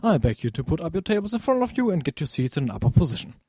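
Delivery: pilot's onboard announcement, lightly voiced; formal cabin address over intercom; pilot cockpit headset. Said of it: "hier spricht Ihr Pilot". (Pilotendurchsage über Bordlautsprecher)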